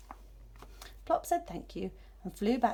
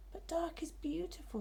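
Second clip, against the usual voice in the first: hushed purr; 8 semitones higher, 6 dB quieter than usual. Acted. Cat purrs about the night.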